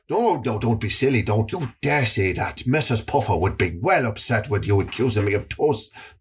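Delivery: deep, defensive shady voice; low dodgy dealer. Acted. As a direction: deny it low and smooth.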